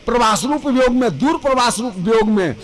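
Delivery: फिर तेज़: प्रवास रूप वियोग में, stress on वियोग. Shown as a demonstration. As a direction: rush the phrase, stress वियोग.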